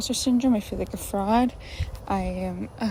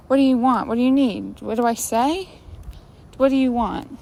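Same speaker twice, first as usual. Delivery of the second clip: loud, exasperated questioning; frantic exasperation; 3 semitones higher, 10 dB louder than usual. Acted. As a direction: fire the questions out loudly, overwhelmed. Overwhelmed, acting out frantic questioning.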